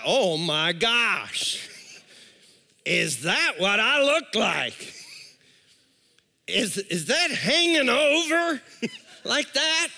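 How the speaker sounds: drawn-out mock horror; dismayed disbelief, hammed up slightly; slow, stretched "oh my gosh" of dismay. Acts out shock at own looks.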